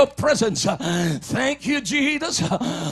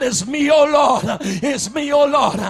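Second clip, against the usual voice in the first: shouted prayer. Acted. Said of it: "Tell God".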